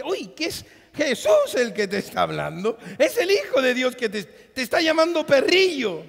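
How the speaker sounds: rising, laughing disbelief; mock gasp at her cheek, laughing; laughing mock scandal.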